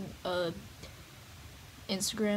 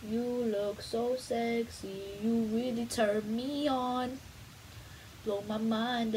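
seductive; slower than usual. Pretend. Mock seductive compliment to self.

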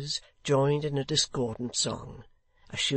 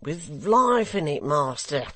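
excited; 3 semitones higher, 7 dB louder, slower than usual. A narrator's reading. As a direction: push it harder with relish. Hugh repeats louder.

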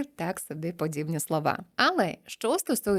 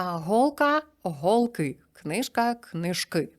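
голка and книжка stressed on the first syllable, голки and книжки stressed on the ending; stress contrast singular plural; much slower than usual. Shown as a demonstration. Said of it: "скрізь наголос на закінченні". (наголос переходить на закінчення в множині)

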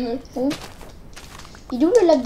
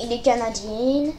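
drawn-out mock Canadian accent; teasing Canadian-French imitation; put-on Canadian accent; 3 semitones lower, slower than usual. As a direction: say it slowly in a playful Canadian accent. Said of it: "prends pas l'accent canadien".

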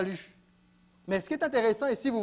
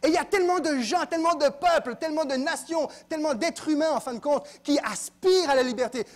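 raised, higher preaching voice; impassioned preaching; 5 semitones higher, 3 dB louder than usual. Real, not acted. Preacher on all peoples longing for freedom, impassioned. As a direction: press each repeated phrase with fervor.

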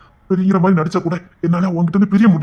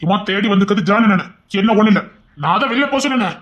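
heated shout; 5 semitones higher, 5 dB louder than usual. Acted. Heated quarrel with wife.

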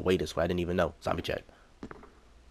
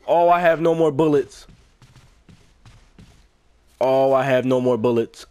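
loud, high wail of dismay; panicked wail; 5 semitones higher, 6 dB louder than usual. Real, not acted. Player out of ammo mid-game, panicked wail. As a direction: wail the realisation out at full voice.

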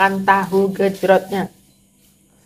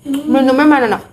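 calling out; 6 semitones higher, 6 dB louder than usual. Real, not acted. Spicy food, calls child for water.

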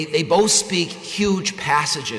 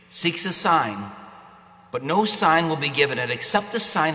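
Gospel reading. Acted. Priest proclaims the Gospel.

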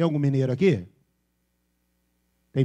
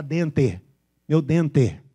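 dente with a hard final "te", not "tchi"; Piracicaba accent; 4 dB louder, much slower than usual. Shown as a demonstration. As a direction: imitate a Piracicaba caipira. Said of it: "Fala pra ele falar dente".

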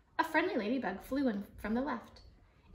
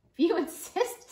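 eerie laugh; 8 semitones higher, 7 dB louder than usual. Acted. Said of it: "laughing eerily".

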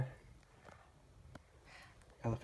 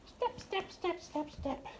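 soft step counting; 7 dB quieter, slower than usual. Real, not acted. Counting steps softly for toddler.

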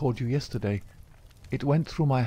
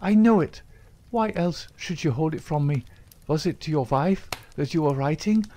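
high, loud accusing burst that stays raised; jealous outburst; 8 semitones higher, 4 dB louder than usual. A narrator's reading. Etty accuses Jack of a secret wife, raised and jealous. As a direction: fling the suspicion at him.

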